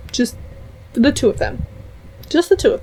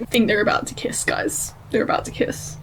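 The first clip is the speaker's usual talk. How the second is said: softer, near-whispered anticipation; hushed suspense; 6 dB quieter than usual. Real, not acted. Telling viewers a kiss is coming, hushed. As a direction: hold your breath as you say it.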